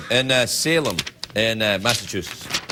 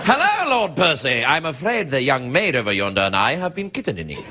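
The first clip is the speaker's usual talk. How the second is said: mock posh English. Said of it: "a posh English sexual position".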